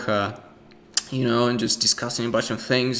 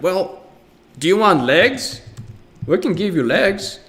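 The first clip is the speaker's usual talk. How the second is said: salesman voice; 8 semitones higher, 5 dB louder than usual. Retold or imitated. Salesman goblin offering legs.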